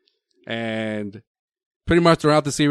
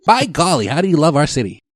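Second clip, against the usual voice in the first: mock Indiana accent; 2 semitones higher, 5 dB louder than usual. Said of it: "Give us a little sample".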